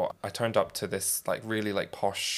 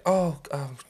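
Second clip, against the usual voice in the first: mimicked wince; 5 semitones higher than usual. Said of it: "like this".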